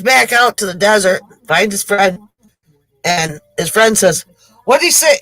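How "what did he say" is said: anxious question. Acted. Bitten man asks anxiously.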